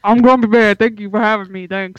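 gruff, loud grumpy cartoon bear. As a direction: play a grouchy teddy bear. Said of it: "If anyone wants to do Grumpy Bear's voice".

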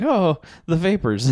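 high, slow fainting-lady parody; hammed-up damsel about to faint; mock swoon. Bitten photographer staggers out to the cop, mock swoon.

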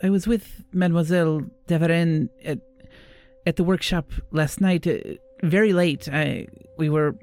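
lightly voiced, hesitant young witness; shaken young apprentice. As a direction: recount it haltingly, with long pauses.

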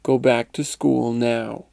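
understated stern command, slow; lightly voiced stern mother. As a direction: order it slowly, with a touch of sternness. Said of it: "said in a stern voice".

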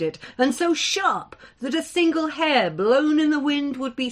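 measured, dramatic storytelling; story narration. A narrator's reading. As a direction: tell the legend to a listening hall. Narrator reads the tale.

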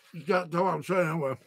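ordinary talk

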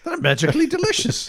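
high-pitched stage-Irish drug dealer voice; Irish accent, cartoon leprechaun style. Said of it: "go ahead, Irish drug dealer".

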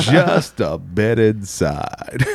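slow, drawn-out announcer call; baseball announcer voice. Retold or imitated. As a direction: call it like a ballgame announcer, slowly. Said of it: "just go".

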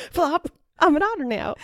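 high, loud cartoon critter; hammed-up little animal voice; playful otter. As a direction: announce it like a gleeful otter. Plays friend turned into otter.

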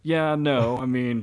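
high, wavering between no and yes; mock hedging denial. Trainer dodging an accusation about his dog, mock defensive. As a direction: start high in protest, then settle down.

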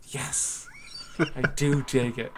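hushed mock-solemn whisper; whispered under breath. Host retelling a longing moment in the park, whispering. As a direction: whisper it secretly to yourself. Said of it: "and I whispered under my breath".

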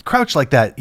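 high, hammed-up scolding Larry voice; mock-scold the crouching cameraman; imitating Larry yelling. Larry scolds cameraman about crouching, high mock yell. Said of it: "he started yelling at me".

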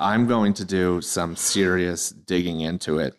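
talking through a yawn; words stretched by a big yawn. Real, not acted. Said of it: "don't yawn into the microphone".

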